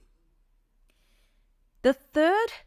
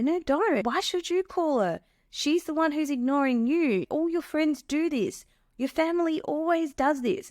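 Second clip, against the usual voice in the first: high, pushy, scornful warning; controlling partner; 7 semitones higher than usual. Retold or imitated. Controlling partner talking her out of calling Kathy, scornful and pushy. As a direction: steer her away from her friends. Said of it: "And they might say".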